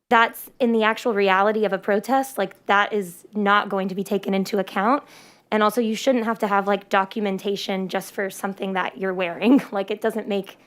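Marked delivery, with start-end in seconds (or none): 5.5-10.6 muffled through a face mask; talking through a face mask. Real, not acted. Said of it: "I'm wearing a mask right now".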